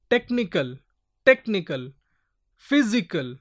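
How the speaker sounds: "technical, physical" with tech and phys emphasized; stressed first syllable. Shown as a demonstration. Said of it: "here we put more stress with these".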